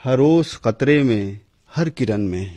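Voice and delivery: measured, declaiming verse recital; poem recitation. Acted. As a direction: recite like a poet at a gathering. Reciting a ghazal at mushaira.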